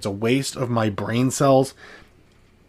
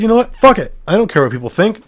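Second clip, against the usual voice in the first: much higher and louder, shouting free; defiant outburst; 9 semitones higher, 5 dB louder, faster than usual. Retold or imitated. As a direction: throw off everyone's opinion in one burst. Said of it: "I eventually said".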